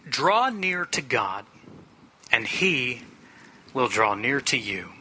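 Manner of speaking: slow, deliberate scripture reading with long pauses. Real, not acted. Preacher reads James on reverent prayer to the congregation, slow scripture reading. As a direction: proclaim each command of the verse slowly.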